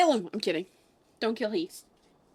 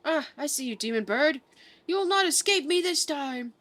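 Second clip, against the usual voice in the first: a hint of a genteel southern inspector, eager; pompous detective voice, only lightly put on; lightly voiced inspector; 4 semitones higher than usual. Streamer reading the inspector's lines to chat, lightly voiced genteel inspector.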